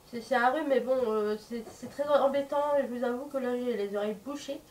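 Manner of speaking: blocked nose from a cold; stuffy nose. Real, not acted. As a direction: talk through a heavy head cold. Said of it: "là j'ai un gros rhume". (nez bouché, voix enrhumée)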